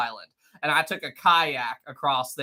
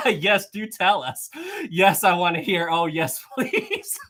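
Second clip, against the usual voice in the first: laughing; 2 semitones higher, slower than usual. Real, not acted. Reading chat's replies while laughing.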